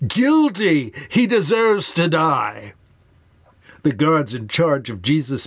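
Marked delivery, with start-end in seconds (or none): 0.1-2.7 council crying out. Acted. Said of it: "the council cries out".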